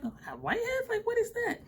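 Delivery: high, startled disbelief; surprised. Retold or imitated. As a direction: squeal it in mock shock. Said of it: "And I'm like".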